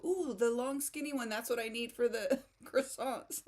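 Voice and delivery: delighted, laughing reply; light up at the gift; excited. Retold or imitated. Retelling her delighted reply.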